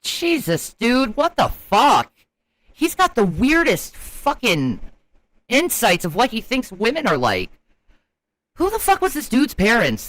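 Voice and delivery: disbelief. Real, not acted. Reacting in disbelief to interview.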